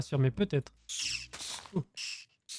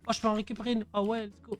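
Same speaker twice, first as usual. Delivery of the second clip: excited; 6 semitones higher, faster than usual. Real, not acted. Finds an anvil.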